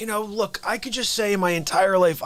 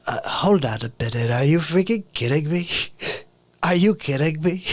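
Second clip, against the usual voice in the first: lightly done bad Trump voice, rambling boast; a loose, hammed-up Trump; Trump impression. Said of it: "The guy who does a really bad Trump impression".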